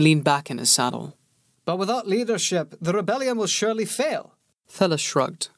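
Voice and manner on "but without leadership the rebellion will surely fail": scornful soldier. A narrator's reading. Bellis mocking the pauper prince, scornful soldier voice. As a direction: sneer at the rebels.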